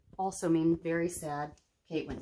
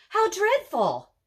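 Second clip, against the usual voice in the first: shocked; 9 semitones higher, 3 dB louder, slower than usual. A narrator's reading. Kate reacts to the murder.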